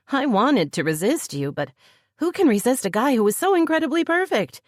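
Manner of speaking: lightly voiced woman, affectionate; a hint of a loving woman; Heather's voice. A narrator's reading. Heather speaks to Jim.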